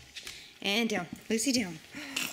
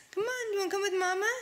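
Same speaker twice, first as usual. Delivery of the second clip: voicing mama; 6 semitones higher, faster than usual. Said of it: "Mama says".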